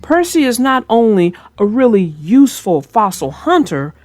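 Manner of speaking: put-on storybook reading voice for kids; gentle read-aloud narrator; story narration. A narrator's reading. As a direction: read it like a bedtime tale. Narrates a children's train story.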